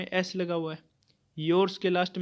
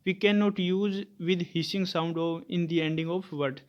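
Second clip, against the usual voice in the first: very slow, word by word; slow dictation; much slower than usual. Shown as a demonstration. Teacher dictating the rule to students, very slowly. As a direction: read it out slowly so students can write.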